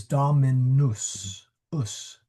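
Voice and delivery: "dominus" ending in short "us". Shown as a demonstration. Teacher correcting vowels, short "us" in dominus. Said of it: "the wrong vowels".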